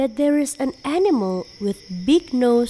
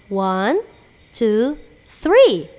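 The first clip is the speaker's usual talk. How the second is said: counting up to a shout; 2 semitones lower, 4 dB louder, slower than usual. Shown as a demonstration. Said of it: "let us shout very loud".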